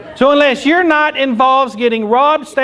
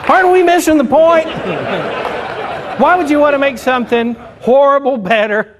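indignant shout; 3 semitones higher than usual. Real, not acted. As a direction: bark it at the crowd in disbelief. Comic's indignant rhetorical question.

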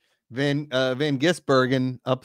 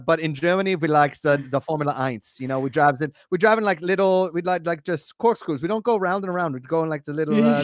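hammed-up German accent, lightly done; mock German accent. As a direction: play a German driver in a jokey German accent. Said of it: "That's pretty good".

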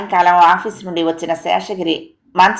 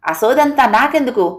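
understated shout, higher at start and end; angry outburst; 3 semitones higher than usual. Acted. Husband fed up with wife's details, mild mock yell. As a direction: snap at her in acted annoyance. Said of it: "పెద్దగా అరిచాడు".

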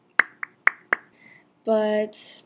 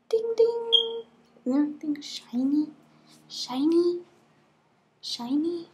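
sing-song; 6 semitones higher than usual. Pretend. Playful sing-song showing off.

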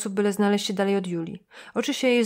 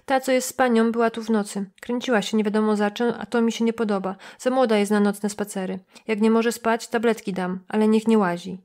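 nosy motel clerk complaining, slightly raised; suspicious receptionist. Acted. Receptionist warns Julia about girl. (lekko zagrany zrzędliwy recepcjonista)

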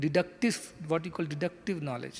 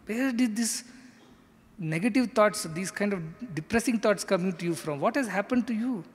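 scolding; 4 semitones higher than usual. Retold or imitated. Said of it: "so he sets the tone".

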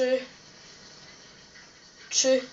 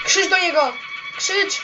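excited urging; 5 semitones higher than usual. Real, not acted. Urging to shout at moon.

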